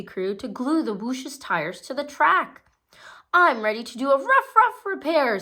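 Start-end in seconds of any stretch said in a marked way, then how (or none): 3.3-5.4 fast, louder, higher eager pup. A narrator's reading. Marshall the pup offering to repair tires, fast and eager. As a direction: rush it out, keen to help. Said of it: "said Marshall".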